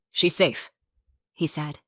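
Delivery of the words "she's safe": protective and firm. A narrator's reading. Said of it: "Matthew's voice changed, protective, firm".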